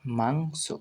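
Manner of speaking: মাংস with rising mang, soft so; pronunciation demo. Shown as a demonstration. Teacher shows how it is pronounced, মাংস enunciated. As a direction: say মাংস carefully, dwelling on the ng. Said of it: "অর্থাৎ উচ্চারণ হবে".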